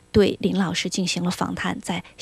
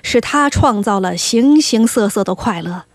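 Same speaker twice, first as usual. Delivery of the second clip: a hint of a crafty devil, slow and deliberate; measured, emphatic delivery as a sly devil; lightly voiced devil; 4 dB louder than usual. Host imitating the devil from C.S. Lewis's book, lightly voiced, slow. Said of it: "我试着模仿一下哈".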